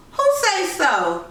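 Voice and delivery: ask, caught off guard; surprised. Acted. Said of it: "Joel asked, surprised".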